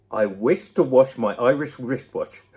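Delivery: tongue twister with a laugh breaking through. Real, not acted. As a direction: giggle while you say it.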